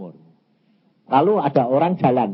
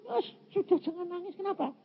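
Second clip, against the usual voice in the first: retold consoling; 11 dB quieter, faster than usual. Voices someone consoling him in tears.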